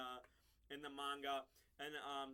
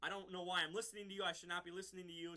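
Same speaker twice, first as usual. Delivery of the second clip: frustrated outburst; faster than usual. Retold or imitated. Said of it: "you know, frustrated".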